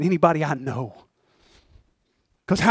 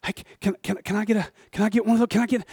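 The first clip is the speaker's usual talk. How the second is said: timid begging; 3 semitones higher, 6 dB quieter, faster than usual. Acted. Lazarus begging for scraps.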